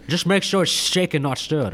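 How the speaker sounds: a faint, barely shifted Scottish Bond voice; a half-hearted try at a Scottish spy's drawl; Sean Connery impression. To his cohost, failing at Bond, a faint Scottish lilt. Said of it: "I'm trying to give you Sean Connery".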